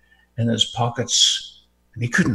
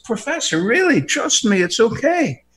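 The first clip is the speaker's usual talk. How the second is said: reassuring conductor; 6 semitones higher than usual. Retold or imitated. Conductor voiced reassuring, higher.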